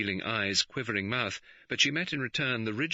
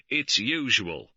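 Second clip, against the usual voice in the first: slow, stolid and unmoved; 4 semitones higher, 6 dB louder, slower than usual. A narrator's reading. Superintendent answering George's outburst, slow and stolid. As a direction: state it flatly, unhurried. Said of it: "with a stolidness".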